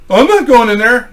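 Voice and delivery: high, loud mock refusal; imitated balking buddy. Lobby buddy refuses the piercing, high and loud.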